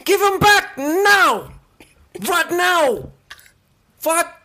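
high, loud, slow hammed-up British accent; British shopkeeper. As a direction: threaten the shoplifter in a goofy British voice. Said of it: "a British man that works at a grocery store".

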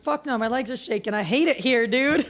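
high strained whine; strained complaint. Retold or imitated. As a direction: whine as legs shake. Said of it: "you're like".

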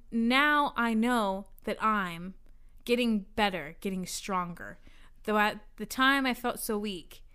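measured, lilting poem recital; poetry reading. Real, not acted. Reading mystery fan poetry to friends, measured recital. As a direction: read it as earnest verse with pauses.

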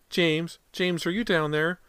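high, anxious mother's call. A narrator's reading. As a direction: call downstairs to your lost child. Mother calls to lost son.

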